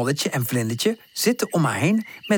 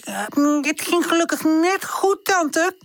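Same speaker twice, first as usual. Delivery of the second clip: quickly; 14 semitones higher than usual. Acted. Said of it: "zegt Buurpoes vlug".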